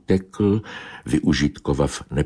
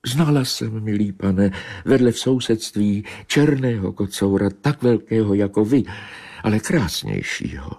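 higher, teasing cat voice; coy she-cat; 4 semitones higher than usual. Acted. She-cat teasing Bobeš, higher and coy. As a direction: needle him sweetly.

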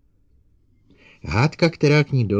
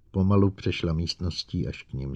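ordinary delivery, nothing marked

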